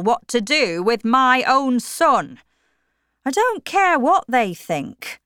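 firm, set on his plans; Mr Tulliver's voice. A narrator's reading. Father refuses to ask relatives.

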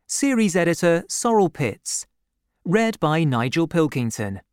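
crisp announcer read, slightly lifted; audiobook closing credits. A narrator's reading. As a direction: announce the title and credits item by item.

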